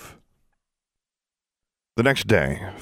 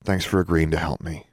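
careful tone. Acted. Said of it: "in a more careful tone".

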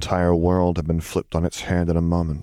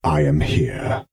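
reassuring; slower than usual. A narrator's reading. Vader reassures sleepy child.

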